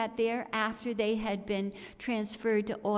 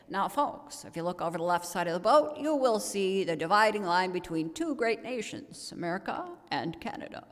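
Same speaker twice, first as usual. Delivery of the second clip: lower, rolling tour-guide patter; lightly voiced tour announcer; father guiding tourists over the loudspeaker; sonorous tour guide; 4 semitones lower, faster than usual. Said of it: "sonorous voice would just float over the water".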